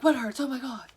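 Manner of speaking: hammed-up fright; mock terror. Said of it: "in terror".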